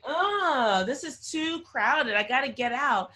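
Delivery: high, loud, stretched-out mock "too crowded"; lightly hammed-up claustrophobic complaint; mock exasperation. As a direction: play Oprah squirming to get out. Oprah's thoughts inside a box.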